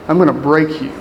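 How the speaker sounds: imitated Russian boxer's accent, understated; quoting a menacing line in a mock Russian accent; thick Russian accent. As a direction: do a Russian movie villain's accent, lightly. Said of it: "he says in a thick Russian accent".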